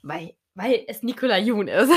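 laughing admission. Real, not acted. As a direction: laugh breaking into the words. Laughs confessing favourite author.

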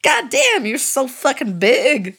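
hammed-up mock moan, pitch jumping up on the first word; overplayed breathy romance-novel moan read for laughs; a silly, half-hearted moan in the middle of the reading. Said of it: "I moan".

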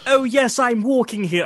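high, put-on posh Boston voice; posh Boston accent. Shown as a demonstration. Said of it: "maybe believed it was posh Boston".

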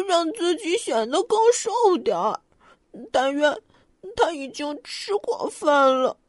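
lightly voiced rabbit reading; rabbit reading aloud. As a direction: read the rules like a serious little rabbit. Rabbit reads next page.

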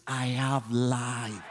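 slow, drawn-out swagger. Shown as a demonstration. Preacher coaching the congregation to declare it, with swag. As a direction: stretch it out with swag. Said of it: "say it with a swag".

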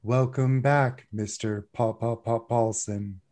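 lightly voiced robot, stuttering the name; a hint of a glitching robot; metallic voice. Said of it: "in a, like, a metallic tinny voice".

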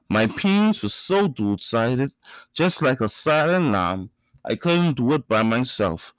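measured, rhythmic poetry recital; spoken word poem. Acted. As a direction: deliver each line like a verse on stage.

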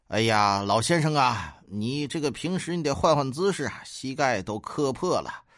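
lightly acted well-meaning counsel, slowing at the end; mildly earnest advice. Bath attendant advising the old customer, mildly earnest. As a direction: advise like a kindly bathhouse uncle. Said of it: "大爷就语重心长地说".

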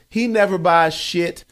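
slow, loud, high-pitched complaint; imitated angry outburst. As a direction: go off on him, hammering it slowly. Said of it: "she is going off now".

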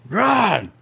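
high, drawn-out attack cry; John attacking. Acted. Game master voices John attacking.

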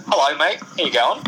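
put-on breezy Aussie greeting in a mild Australian accent; playful hint of an Australian bloke. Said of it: "a tick Australian guy who's like".

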